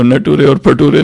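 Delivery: नटुरे and फटुरे read as spelt, for "nature" and "future"; loudly cite the wrong forms, na-too-ray and fa-too-ray; नटुरे, फटुरे with every letter sounded out; mispronounced words. Shown as a demonstration. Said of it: "नटुरे और फटुरे नहीं है".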